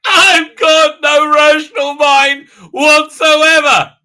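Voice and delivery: high, loud, slow and drawn-out; crazed dog voice. Retold or imitated. Dog mocking its owner, crazed high voice. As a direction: stretch every word like a gleefully mad dog. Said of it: "the dog looks at me like this".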